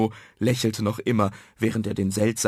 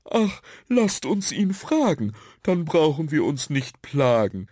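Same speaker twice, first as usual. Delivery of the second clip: lightly voiced little creature, pitched up; higher storybook figure, deciding; decisive blue dot; 5 semitones higher than usual. A narrator's reading. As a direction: propose it in a slightly put-on sprite voice. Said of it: "entschied der blaue Punkt".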